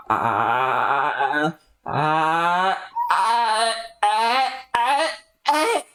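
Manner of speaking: rising staccato laugh; hammed-up chuckle; mock laughter. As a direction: laugh it up in bursts. Laughing character.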